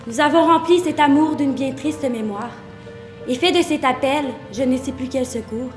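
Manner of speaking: gently recited, subdued; tender lullaby poem. Acted. Speaker bidding a red-haired lover sleep, promising no war, tender.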